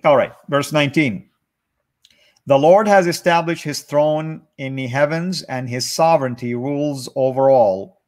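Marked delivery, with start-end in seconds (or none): 2.5-8.0 measured, deliberate scripture read-aloud; careful Bible reading with pauses; psalm reading. Real, not acted. Reads psalm aloud to the group.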